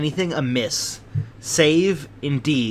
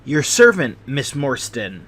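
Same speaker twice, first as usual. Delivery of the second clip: nervous little host in a higher, thin voice; 5 dB louder than usual. Acted. Nervous host greeting Miss Morstan at the door, high thin voice. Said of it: "he kept repeating in a high, thin voice".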